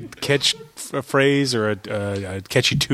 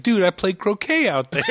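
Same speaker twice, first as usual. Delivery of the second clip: higher mock-outraged movie quote; quoted movie character; 7 semitones higher than usual. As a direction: do the film line, pitched up. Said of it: "He's like".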